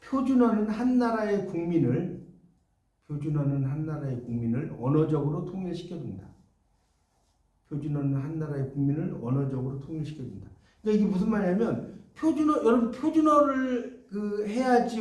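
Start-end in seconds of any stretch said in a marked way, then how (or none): 0.1-10.5 dictating. Shown as a demonstration. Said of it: "뭐라고 쓰냐면".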